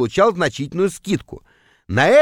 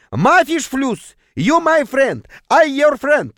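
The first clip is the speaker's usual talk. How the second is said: high, insistent bazaar merchant; pushy high-pitched hawker; squealing street vendor; 9 semitones higher, slower than usual. A narrator's reading. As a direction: plead the sale in a high trader's voice. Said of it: "заверещал запыхавшийся торговец".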